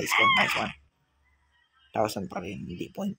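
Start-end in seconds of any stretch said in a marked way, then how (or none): 0.0-0.7 squeaky cheer. Acted. Squeaky cheer at high score.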